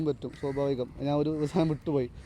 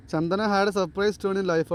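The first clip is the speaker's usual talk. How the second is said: slow dictation; much slower than usual. Shown as a demonstration. Teacher reads out exam question.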